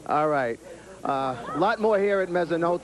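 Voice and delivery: talking with a mouth full. Real, not acted. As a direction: speak through a mouthful of chicken. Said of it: "I got chicken coming out of my mouth".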